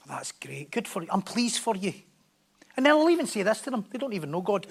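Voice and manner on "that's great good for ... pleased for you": soft, lower mock reply; flat polite approval. Imitating Christians, soft low polite approval. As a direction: brush it off politely, under the breath. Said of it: "the Christians are like".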